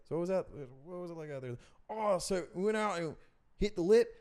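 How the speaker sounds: high, stoked surfer dude; surfer interview voice. Retold or imitated. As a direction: play the dopey surfer being interviewed. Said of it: "the guy's like".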